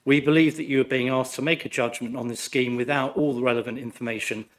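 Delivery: hoarse, croaky from flu. Real, not acted. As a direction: speak through a sore, croaky throat. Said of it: "Please excuse my croaky voice".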